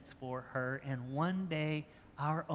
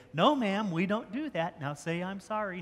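put-on a touch louder and higher, firm correction of a toddler; firm parent; 4 semitones higher, 5 dB louder than usual. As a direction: correct a little child firmly, mild mock sternness.

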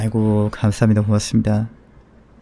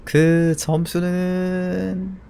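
drawn-out suspense; 8 semitones higher, much slower than usual. Real, not acted. Building up score reveal.

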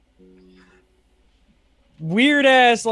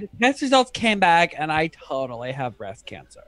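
put-on valley girl accent; 3 semitones lower than usual. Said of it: "redo the room in Valley Girl accent".

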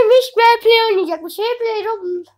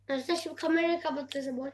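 fast hushed whisper; 4 semitones lower, 16 dB quieter, faster than usual. Real, not acted. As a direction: whisper it quickly to the viewers. Secretly ending the video.

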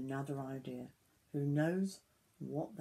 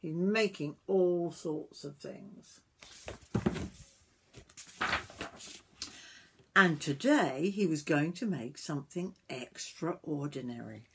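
measured storybook reading with emphatic key words; story narration to children; 5 dB louder than usual. A narrator's reading. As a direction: read it aloud to little ones.

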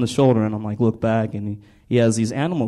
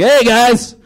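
Jesus; 2 semitones higher, slower than usual. Acted. Jesus warming up the crowd like comedians do, hammed-up. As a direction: work the crowd, then drag out the punchlines. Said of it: "Jesus is like".

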